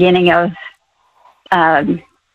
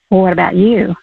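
gentle, tender inner voice asking quietly; sweet soft question. Retold or imitated. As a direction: ask it softly, like a loving nudge. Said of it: "such a sweet, soft question".

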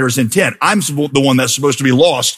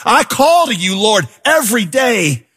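anguished cry; 5 semitones higher than usual. Acted. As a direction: build to a desperate shout. Climax of the lament.

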